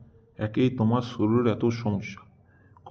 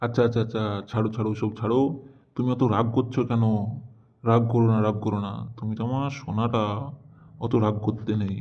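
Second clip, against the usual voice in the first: coaxing, calm-down tone; mild, affectionate appeasement; placating. Acted. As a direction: soothe an angry wife gently. Husband placates angry wife.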